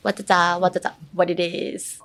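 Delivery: WHAT IT IS in the rhythm of WHAT DA DA; same intonation. Shown as a demonstration. Teacher matching phrase to K-pop song, same rhythmic tune on WHAT IT IS. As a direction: run WHAT DA DA straight into a matching WHAT IT IS. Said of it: "has the same intonation".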